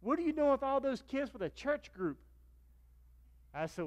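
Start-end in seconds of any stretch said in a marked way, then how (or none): 0.0-2.2 high, loud puzzled question; friend puzzled. Retold or imitated. Friend can't believe he's with the church kids, high and loud. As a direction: ask in baffled disbelief. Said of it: "He goes".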